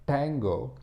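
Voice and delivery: "tango" with the T made further back on the palate; Tamil T. Shown as a demonstration. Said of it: "the Tamil T sound is produced".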